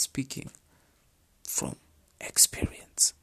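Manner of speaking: slow, broken-up whisper; hushed, pointed whisper. Shown as a demonstration. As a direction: whisper each word apart for weight. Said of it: "she's emphasizing on speaking".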